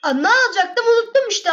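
real surprise, voice jumps up; flustered exclamation. Real, not acted. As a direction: blurt it in sudden confusion. Suddenly forgets item.

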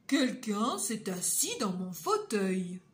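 grosse voix bourrue de papa ours, plus forte. Acted. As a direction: jouer le papa ours mécontent. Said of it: "Et Papa Ours dit". (Papa Ours grogne en rentrant, voix forte et bourrue)

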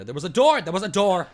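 sudden excited realization; excited discovery. Real, not acted. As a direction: blurt it out like you just spotted it.

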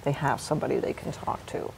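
soft, near-whispered reassurance. Real, not acted. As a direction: ease the words out gently, almost breathless. Hospice nurse comforting, trailing soft.

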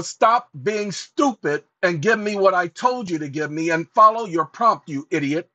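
fed-up rebuke aimed at a chatbot; scolding the AI. Real, not acted. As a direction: tell the machine off hard. Scolding the AI while dictating.

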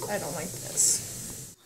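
speaking through a numb mouth; words slurred by numbness; numb from the dentist. Real, not acted. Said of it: "My mouth is numb".

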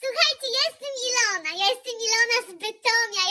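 ordinary talk, nothing marked

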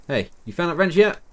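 game character's dialogue. Acted. Voicing game character's question.

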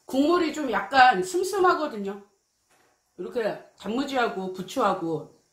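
talking while chewing food; muffled through half-chewed food; mouth full, chewing. Real, not acted. Seen 1: Eats noodles before, bites again at 2.5; pursed chewing mouth.

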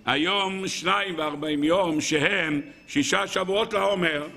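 slow, measured recitation; liturgical counting. Acted. Man counting the Omer in doubt, reciting slowly. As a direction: intone the count, drawing out the words.

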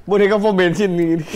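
ordinary talk, nothing marked

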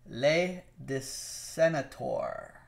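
whispered, slow, unsure try at "Le de Senator"; unsure pronunciation. Real, not acted. Reading a viewer's name aloud, tentative whispered pronunciation. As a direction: sound out "Le de Senator" carefully under the breath. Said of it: "I don't know if I pronounced that correctly".

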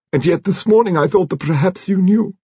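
put-on a grand old lady, deliberate; Lady Lacklander. A narrator's reading. Narrator voices Lady Lacklander.

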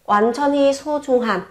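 teacher modelling 완전히 소중한 in Korean; Korean phrase demo. Shown as a demonstration. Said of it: "viết tắt của từ 완전히 소중한".

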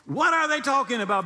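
God amused at the list of titles; laughing puzzled God. Retold or imitated. God laughing at the saint's titles, high amused bafflement. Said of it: "God's like".

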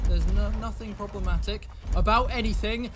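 building to a high, loud shout; mock calm cracking into a yell. Real, not acted. Gamer insisting all is fine, voice bursting into a shout. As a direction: insist calm then explode.

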